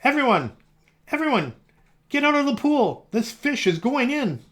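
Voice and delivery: high, loud yell clearing the pool; yelled warning. A narrator's reading. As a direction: call everyone out, commanding. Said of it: "The fireman yelled".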